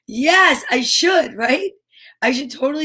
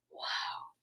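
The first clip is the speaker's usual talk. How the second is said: awed gasp; 22 dB quieter than usual. Real, not acted. Awed at reading.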